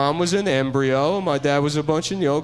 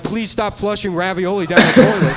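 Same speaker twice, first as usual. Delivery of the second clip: loud, higher pleading announcement; mock PSA plea; 6 semitones higher, 8 dB louder than usual. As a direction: beg the public like a fed-up PSA. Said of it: "they're like".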